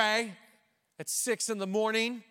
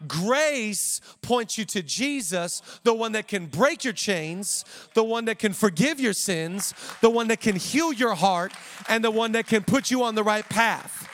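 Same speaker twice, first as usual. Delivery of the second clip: building preaching; 4 dB louder than usual. Acted. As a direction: build each line louder, like a sermon peak.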